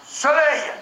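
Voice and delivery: high eager naming; parent naming. Retold or imitated. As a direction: call out the word up high. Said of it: "tu dis".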